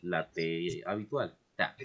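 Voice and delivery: "ta" with a plain crisp T, slow; normal T. Shown as a demonstration. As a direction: say "ta" as a clean T sound, slowly. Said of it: "la más común de todas".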